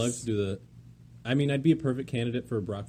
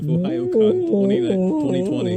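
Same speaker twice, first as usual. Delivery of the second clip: excited; 9 semitones higher, 10 dB louder than usual. Pretend. Hyping the frying pan gag.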